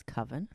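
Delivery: Coven said like "cuvven"; short-o Coven. Shown as a demonstration. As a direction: rhyme Coven with "oven". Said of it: "totally pronounce that as Coven".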